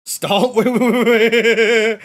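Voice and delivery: loud, slow laughing "wait, wait". Real, not acted. Viewer startled by Stalin's name, laughing loud wait. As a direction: stop everything while cracking up.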